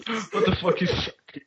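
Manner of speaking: high-pitched disbelief; can't believe the word; incredulous. Real, not acted.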